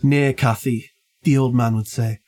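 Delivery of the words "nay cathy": put-on light Yorkshire accent, old man scolding; a gentle hint of broad Yorkshire; understated Yorkshire old man. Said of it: "I'll do my best Yorkshire accent".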